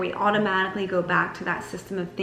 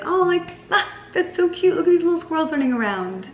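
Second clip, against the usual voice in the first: much higher, louder cooing at cute squirrels; delighted cooing; 10 semitones higher, 4 dB louder than usual. Pretend. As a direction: gush over them like a child. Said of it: "watch them and be like".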